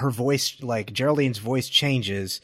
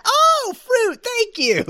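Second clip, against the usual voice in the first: much higher, gushing thanks; mock gracious high voice; 5 dB louder, much slower than usual. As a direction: play the delighted hostess. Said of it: "It's like".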